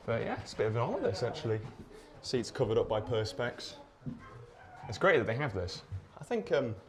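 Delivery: winded after climbing stairs; puffing after a steep climb; out of breath. Real, not acted. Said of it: "I'm out of breath now from the stairs".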